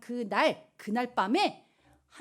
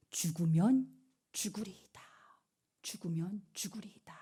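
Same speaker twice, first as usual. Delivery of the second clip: hushed vow; 4 semitones lower, 7 dB quieter than usual. Acted. Preacher whispering Esther's vow to the youth.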